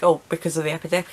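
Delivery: quick, rattled-off mock explanation; imitated over-explaining. Hospital staff explaining precautions to a patient, imitated over-explaining. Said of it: "trying to over-explain".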